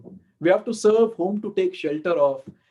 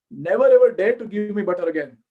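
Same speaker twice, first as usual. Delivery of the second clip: louder mock-offended command; acted indignant warning; 5 dB louder than usual. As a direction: warn them off, playing offended. Krishna haughtily refusing the butter.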